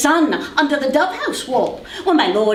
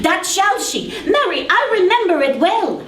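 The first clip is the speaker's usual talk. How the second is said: laughing; 5 semitones higher than usual. Acted. Nurse laughs reminiscing.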